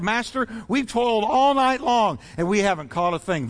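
mildly exasperated fisherman protesting; weary protest to the master, lightly irritated; irritated Peter. Acted. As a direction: complain with a touch of irritation. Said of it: "You can almost hear the irritation in Peter's voice".

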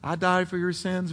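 very soft, gentle tapping voice; quiet, gentle voice. Acted. Still small voice calling a sinner, very quiet and gentle. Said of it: "Very quietly, very gently".

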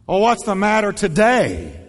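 brisk and a bit loud; bright concern. Shown as a demonstration. Pastor demonstrates a careless tone to the congregation. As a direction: ask it like you're only half interested. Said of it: "The tone you choose".

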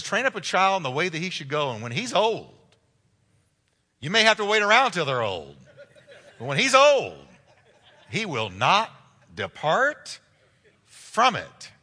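loud, punched verse with suspense pauses; emphatic preaching. Acted. Preacher driving a promise home to parents, emphatic preaching. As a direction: preach it out, phrase by phrase.

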